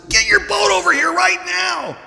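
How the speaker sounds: high shouted call across the water. Acted. Peter shouting to James and John for help. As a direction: yell for the other boat to come now. Peter calls to other boat.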